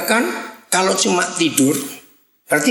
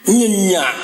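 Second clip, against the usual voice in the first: "Nyenyak" set off alone after a pause; stress on Nyenyak. Shown as a demonstration. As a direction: land firmly on "Nyenyak", falling. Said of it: "nyenyaknya itu penting".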